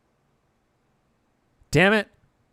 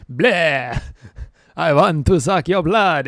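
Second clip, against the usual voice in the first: hammed-up Transylvanian Dracula accent, louder and slow; stage vampire in a Transylvanian accent, drawn out; 4 semitones higher, 11 dB louder, slower than usual. Streamer guesses a Romanian accent as a Transylvanian vampire. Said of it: "Transylvanian is like".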